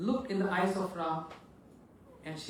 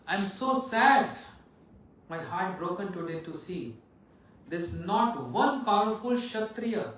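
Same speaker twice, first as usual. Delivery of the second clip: lamenting king; 4 dB louder than usual. Acted. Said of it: "crying and weeping".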